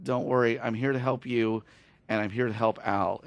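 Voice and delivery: retold softly, calming her; lightly acted, soft-spoken comfort; gentle reassurance. Retold reassurance to a frightened wife.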